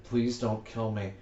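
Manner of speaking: terrified horror victim. Shown as a demonstration. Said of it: "I'm pretending I'm praying to God".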